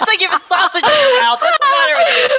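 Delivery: shrieking with laughter, high and loud; real laughing teasing; laughing hard. Real, not acted. Laughing at friend's attempt.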